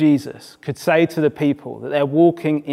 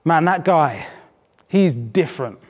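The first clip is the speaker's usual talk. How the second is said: imitating an impressed lad, laid-back; cool street slang. Footballer praising a standout player, cool and impressed. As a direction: drop into cool South East London slang, each phrase falling away. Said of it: "it sounds so cool".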